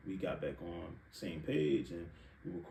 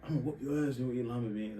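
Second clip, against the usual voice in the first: mock dad threat; 3 semitones higher than usual. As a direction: threaten like an annoyed father. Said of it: "threatened me".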